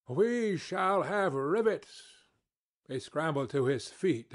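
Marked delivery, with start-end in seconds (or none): 0.1-2.3 a slow, mildly raised shout of good news. Acted. Narrator to the boiler-maker, a slow mock-hearty shout. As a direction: call it out with a clap on the back, drawn out. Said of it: "I slapped him on the back and shouted".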